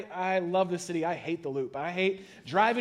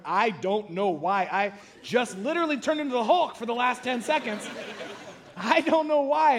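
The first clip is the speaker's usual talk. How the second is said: laughing apology; 4 semitones higher, 3 dB louder than usual. Retold or imitated. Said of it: "I instantly started laughing".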